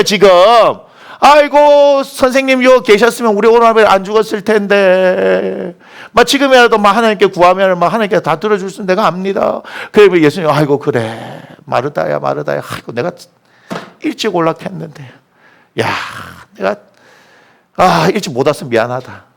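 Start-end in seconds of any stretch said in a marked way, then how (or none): 1.2-9.6 a raised opening cry, endings stretched out; plaintive lament. Acted. Martha laments to Jesus over her brother, mock plaintive. 10.5-19.2 softly sighed, low consolation; lower, subdued, with regretful pauses; consoling apology. Acted. Imagined Jesus apologises to grieving Martha, softly consoling.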